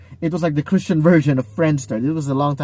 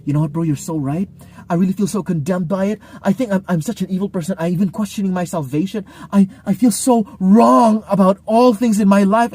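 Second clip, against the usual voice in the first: overdone repentance; 3 semitones higher than usual. Retold or imitated. Corrected person overreacting to a friend's rebuke, mock gushing remorse. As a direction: rush the guilt then burst out. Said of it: "some people do that".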